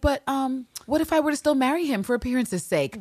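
high, dainty innocent question; naive Walker. Retold or imitated. Walker timidly asking about marrying him, high and naive. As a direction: ask it sweetly clueless. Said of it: "And Walker's like".

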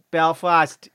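put-on Belfast twang; Belfast accent. Shown as a demonstration. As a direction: demonstrate how Belfast talk sounds. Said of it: "Belfast is more kinda like that".

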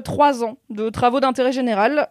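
ordinary talk

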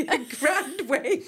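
laughing repeat. Real, not acted. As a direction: savour the funny word, slowly, laughing. Cracking up at Scottish word.

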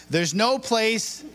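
stretched cue awaiting an answer; fill-in-the-blank prompt. Shown as a demonstration. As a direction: draw out each word for the crowd to finish. Cueing audience to finish phrase.

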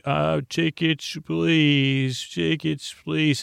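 a light sing-song ticket inspector; conductor asking tickets. Acted. Uncle playing conductor to the kids, hammed-up ticket call.

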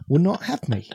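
unvoiced, breathy whisper of the line. Shown as a demonstration. Trailing off his impression into a whisper. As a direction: let the words fall to a whisper. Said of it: "whispered line of the impression".

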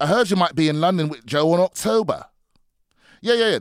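a shaky put-on Australian accent, rising at the end; mock Australian accent. Reading a London fan's message in a mock Australian accent. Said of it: "that sounds very Australian".

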